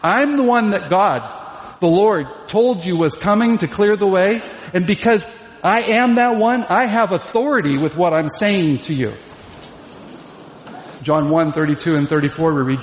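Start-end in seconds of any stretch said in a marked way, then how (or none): 0.0-9.1 higher-pitched, emphatic declaration; claiming authority. Acted. John tells listeners God foretold his coming, authoritative. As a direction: assert your right to be heard. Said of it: "carries with it authority".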